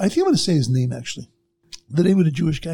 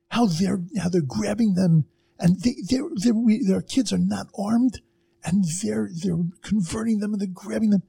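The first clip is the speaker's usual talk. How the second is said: passionate outburst; 5 semitones higher than usual. Retold or imitated. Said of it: "in the most passionate way".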